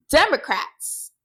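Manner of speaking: imitated Texas twang, punched a bit; little Texas twang. Retelling a cast member's sharp comeback, Texas twang. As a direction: do a light mock Texas twang. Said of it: "she said it in her little twang".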